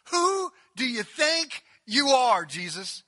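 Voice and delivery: loud and slow, every word leaned on; slow pointed challenge. Acted. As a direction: drag it out to belittle him. And then I love this line.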